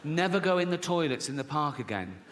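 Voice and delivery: deliberate warning at an ordinary pitch; measured warning. Retold or imitated. Mum warning her young son off park toilets, measured. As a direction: spell out the warning unhurriedly.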